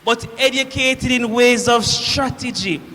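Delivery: forceful boast of a Roman officer; proud declamation. Acted. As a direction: declaim it with military pride and force. Centurion proudly declaims his rank.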